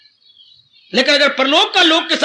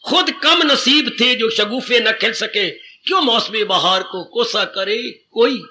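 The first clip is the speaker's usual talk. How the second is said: recited couplet; slower than usual. Shown as a demonstration. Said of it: "कितना अच्छा कवि कह गया".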